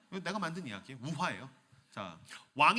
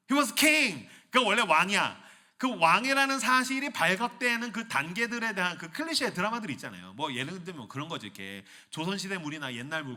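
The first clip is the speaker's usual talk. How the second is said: ordinary talk, nothing marked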